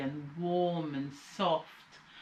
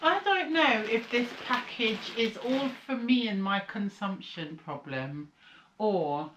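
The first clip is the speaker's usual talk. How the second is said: mouth full; 3 semitones higher than usual. Real, not acted. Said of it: "I've got a locket in my mouth".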